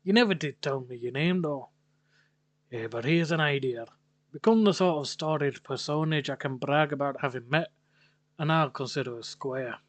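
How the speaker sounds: put-on Irish-Scottish accent. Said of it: "Don't know what fucking accent".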